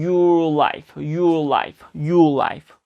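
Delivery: "your life" with a long drawn-out "your" gliding into the L; slow, careful model of "your life"; linked pronunciation demo. Shown as a demonstration. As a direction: stretch "your", lift the tongue lightly into "life". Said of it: "여기를 살짝 올려주면서".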